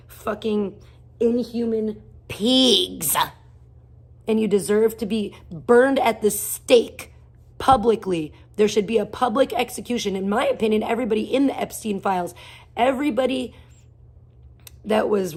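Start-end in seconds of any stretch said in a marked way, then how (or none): 0.1-10.5 angry rant. Real, not acted. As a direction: spit out each word in disgust. Ranting at politicians.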